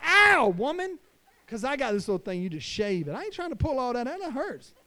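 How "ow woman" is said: sharp high yelp of pain at his wife; a loud high "ow" at her tugging. Retold or imitated. Husband yelping at wife pulling ear hair, high and loud. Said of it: "And I was like".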